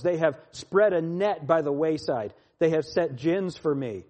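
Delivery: emphatic psalm reading, key words punched; scripture reading. Acted. Preacher reads the psalm to his listeners, declaimed. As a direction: declaim the psalm with surges of force.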